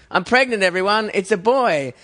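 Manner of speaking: high, bright fake baby news; mock announcement. Joking on Facebook that he's pregnant, high mock announcement. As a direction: announce it like a joking proud parent. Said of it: "And I was like".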